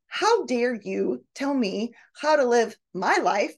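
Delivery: mildly acted indignation, rising in pitch; mock-angry and defensive. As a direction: act out an offended retort. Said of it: "You're really angry".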